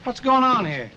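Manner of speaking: surprised. Real, not acted. Walks in on golf lesson.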